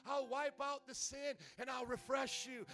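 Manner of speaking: slow, loud, high calling voice; voice of God. Acted. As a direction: call the weary in, slowly. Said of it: "God is saying to you".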